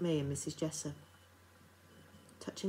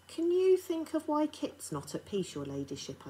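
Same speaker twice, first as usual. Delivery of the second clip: bold; 11 semitones higher, 3 dB louder than usual. A narrator's reading. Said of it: "I said, bold as I could".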